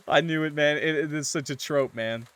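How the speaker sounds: loud, excited vindication; triumphant. Real, not acted. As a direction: crow about being right. Streamer exults over predicted twist.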